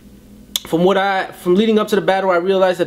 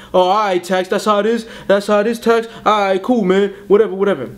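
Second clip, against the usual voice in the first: brushing it off; 4 semitones higher than usual. Retold or imitated. Caliente brushing off the threat.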